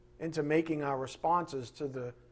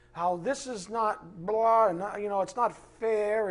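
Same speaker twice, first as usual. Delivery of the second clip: mock moaning; 3 semitones higher, slower than usual. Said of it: "moaning and groaning".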